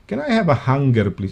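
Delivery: "hanger" with a hard g, as hang-ger; Birmingham pronunciation. Retold or imitated. Host retells someone asking for a hanger, hard-g "hanger". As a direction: sound the g in "hanger". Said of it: "Ang pronunciation na, hanger".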